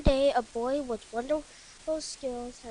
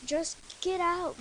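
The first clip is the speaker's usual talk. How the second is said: higher urgent command; 7 semitones higher, 3 dB louder than usual. A narrator's reading. Dad ordering family off the sinking boat, urgent. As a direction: hurry them off the boat. Dad urging escape in storm.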